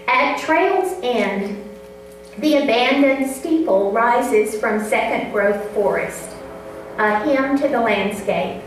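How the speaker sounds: measured, unhurried poetry reading; poem reading. Acted. Reads her poem aloud.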